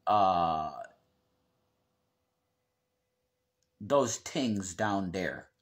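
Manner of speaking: anthracite-brogue Pennsylvania accent, th turned to t; northeastern Pennsylvania accent. Shown as a demonstration. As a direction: say it like a coal-region Pennsylvanian. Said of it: "The accent from here usually sounds like".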